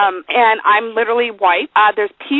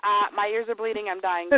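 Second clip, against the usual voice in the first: mock suffering listeners; 2 semitones lower, 10 dB quieter than usual. Voicing listeners tired of her, softly agonized. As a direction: fade away as if worn out.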